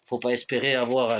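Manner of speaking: just before a sip; words cut off by a drink; while sipping a drink. Real, not acted. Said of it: "je bois un coup".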